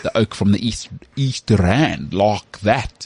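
hammed-up South African accent; mock a Brit imitating a South African; British take on South African. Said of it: "'cause they, they do, like".

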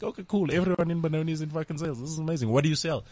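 hushed, faux-impressed; quiet, sarcastic wonder; mock amazement. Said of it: "I'm like".

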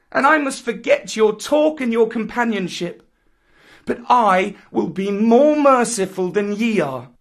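put-on high, loud, proud jungle boy; defiant Mowgli. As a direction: scornfully lord it over the pack. Mowgli renounces the wolves.

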